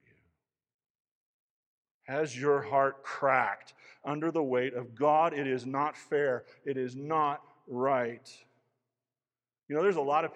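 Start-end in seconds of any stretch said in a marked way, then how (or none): 2.0-8.5 anguished cry. Acted. Voicing a heartbroken cry to God.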